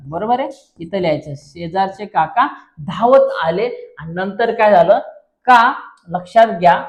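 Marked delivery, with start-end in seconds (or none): 1.4-4.0 slow, separated words; slow dictation. Shown as a demonstration. Teacher giving pupils the next sentence, slow dictation. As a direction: read it out slowly for note-taking.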